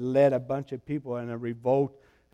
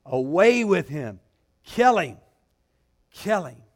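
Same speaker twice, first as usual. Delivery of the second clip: crowd shout; 6 dB louder than usual. Retold or imitated.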